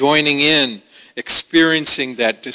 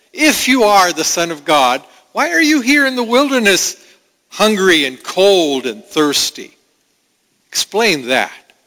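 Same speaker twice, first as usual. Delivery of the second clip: Satan taunting; 5 semitones higher than usual. Acted. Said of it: "Satan came to him and he says".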